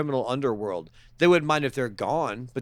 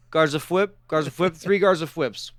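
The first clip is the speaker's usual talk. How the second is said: louder, punchy movie-order impression; John Candy; 4 semitones higher, 4 dB louder than usual. Ordering drinks as in Blues Brothers, hearty impression. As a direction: call out a drink order, mock-eager. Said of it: "It's what John Candy orders in Blues Brothers".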